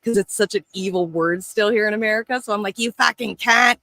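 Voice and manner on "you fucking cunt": louder, higher playful jab in an Australian-style insult; mock insult. Showing how he shocks Americans, with a loud mock insult. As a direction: fling it out like friendly banter. Acting out casual insult to friends.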